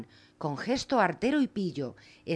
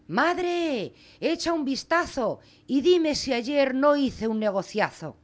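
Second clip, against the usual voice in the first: put-on higher, eager boy calling to his mother; calling out excitedly; 6 semitones higher, slower than usual. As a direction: call out proud of the bargain. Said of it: "Juanito gritó".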